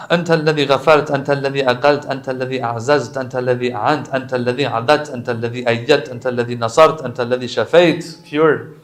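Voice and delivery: rapid, rhythmic litany; Arabic supplication recital. Acted. Listing God's favours to the congregation, fast devotional recitation. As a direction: rattle off the praises in an even, repeating beat.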